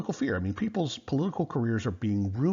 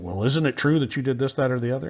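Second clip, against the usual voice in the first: a touch louder, higher, pressing question; badgering accusation; 5 semitones higher, 5 dB louder, faster than usual. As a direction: lean on the witness like a bullying senator. McCarthy badgering the army witness.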